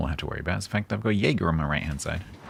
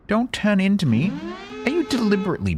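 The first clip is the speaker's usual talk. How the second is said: high, loud alarmed yell; alarmed shout; 4 dB louder than usual. Real, not acted. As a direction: shriek a warning at a teammate. Teammate about to ram him.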